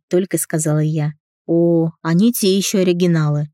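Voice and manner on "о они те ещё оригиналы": ordinary delivery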